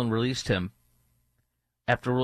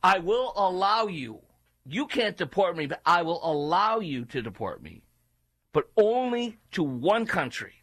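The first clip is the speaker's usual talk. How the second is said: higher-pitched, haughty proclamation; mock defiant deportee; 7 semitones higher than usual. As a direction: declare it grandly as a mock entitled man. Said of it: "Where the illegal says".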